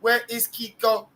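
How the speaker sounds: high, slow put-on Thai girl voice; mock Thai accent. Asking after a missing friend, mock Thai girl accent. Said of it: "Can I say it like a Thai girl?".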